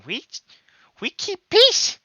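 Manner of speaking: broken-English goblin, ending on a high squeak; a goblin whose voice jumps up at the end; pleading goblin elder, voice cracking high; goblin voice hitting a high note. Acted. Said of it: "hits, like, a bit of a high note".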